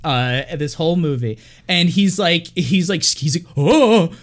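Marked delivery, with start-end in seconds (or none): 3.6-4.1 high, loud startled yelp; mock frightened yelp. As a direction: squeak like a terrified little baby. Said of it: "he's makes these weird noises".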